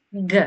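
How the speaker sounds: Γ as a short hard g; letter sound. Shown as a demonstration. Teacher contrasting it with Greek gamma, Γ demonstrated as hard g. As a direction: say Γ as g in "go", barely any vowel. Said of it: "όμως προφέρεται ως Γ".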